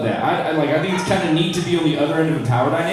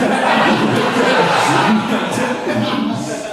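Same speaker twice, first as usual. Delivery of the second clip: real laugh; 7 semitones higher than usual. Real, not acted. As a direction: burst of breathy laughter. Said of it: "this is me".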